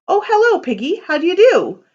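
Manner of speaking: high, sugary phone greeting; a prim little lady answering the phone; sweet girl voice. Acted. Red Riding Hood greeting Pig on the phone, sugary.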